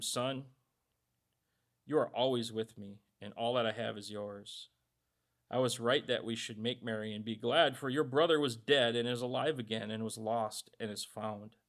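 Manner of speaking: soft, low, reassuring father's reply; gentle father. Acted. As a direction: soothe the jealous son, softly. Father answers jealous son gently.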